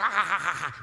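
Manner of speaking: loud acted evil cackle; hateful demon laugh. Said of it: "aquele ódio saindo dos olhos dele". (gargalhada maligna e alta)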